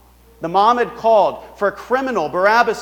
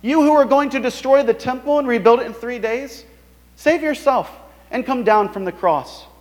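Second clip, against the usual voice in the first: mocking passerby; 5 semitones higher than usual. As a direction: sneer it at the man on the cross. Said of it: "hurling abuse at him".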